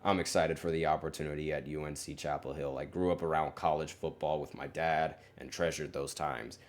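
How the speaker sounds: lightly imitated coach's monotone, a bit subdued; a hint of a dry, unexcited coach reading a prepared quote; monotone Bill Belichick. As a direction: read the statement in a mild mock monotone. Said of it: "He probably said that in that monotone voice".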